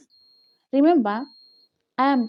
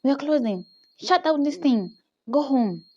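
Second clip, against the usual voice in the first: higher-pitched cross commands; retold mad boss; 5 semitones higher than usual. Boss abruptly shutting the office mid-morning, retold angry orders. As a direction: order them out, imitating a sudden temper. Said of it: "He's mad all of a sudden".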